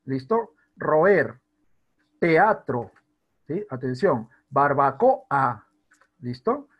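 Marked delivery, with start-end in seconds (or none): 0.8-2.9 Roer and Teatro loudly split, ro-er, te-atro; separated vowels. Shown as a demonstration. Teacher giving hiatus examples, vowels split. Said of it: "Son dos vocales abiertas diferentes". 4.5-5.7 Barbacoa slow and loud, barbaco... a; separated vowels. Shown as a demonstration. Teacher giving a hiatus example, slowly split. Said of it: "Son dos vocales abiertas diferentes".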